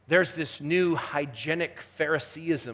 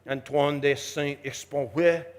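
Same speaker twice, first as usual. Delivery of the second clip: attempted French pronunciation of the name; playful French accent. Shown as a demonstration. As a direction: give the name a mock-perfect French accent. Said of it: "That's perfect French accent".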